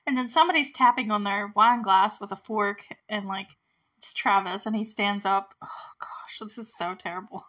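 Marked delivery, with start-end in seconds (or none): 5.6-7.5 a hushed, appalled aside; cringing whisper. Real, not acted. Viewer whispers to the audience, cringing at the proposal. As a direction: whisper it, secretly horrified at the scene.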